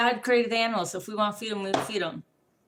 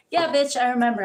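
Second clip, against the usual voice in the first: a touch louder, snapping back; irritated retort; 3 semitones higher, 6 dB louder than usual. Real, not acted. Answering trolls who bring up the past, irritated snap. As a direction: bite it back at them.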